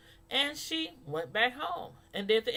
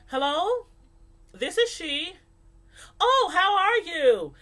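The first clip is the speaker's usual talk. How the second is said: higher, polite professional phone voice; proper phone voice; 7 semitones higher, 5 dB louder, slower than usual. Shown as a demonstration. Showing how she sounds picking up a call from somebody, proper. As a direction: switch into a proper, polished tone. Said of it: "switch it on and off".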